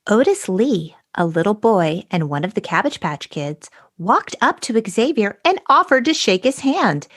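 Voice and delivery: fairy-tale narration, a touch of wonder at the crystals; dramatic story reading. Shown as a demonstration. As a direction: read it like a storybook for kids. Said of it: "a dramatic abridged reading".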